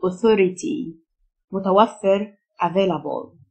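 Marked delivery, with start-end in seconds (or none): 0.1-1.0 authority with TH as unvoiced "th"; th as soft th. Shown as a demonstration. Teacher showing learners the th sound, soft unvoiced TH in authority. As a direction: say authority, tongue-tip TH in the middle. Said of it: "التي اتش تنطق فه".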